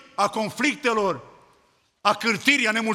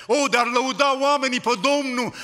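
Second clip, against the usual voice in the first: higher and louder, crying out the verse; a preacher's raised call to praise; exhortation; 5 semitones higher, 4 dB louder than usual. Real, not acted. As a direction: lift the voice and proclaim it to the church.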